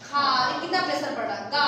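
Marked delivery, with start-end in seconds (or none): 1.5-1.6 "का" pushed from the throat with pressure; throat syllable demo. Shown as a demonstration. Teacher showing students "का" from the throat. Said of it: "ये सब वर्ण आप बोले तो स्पेशल यहाँ पर प्रेशर पड़ेगा".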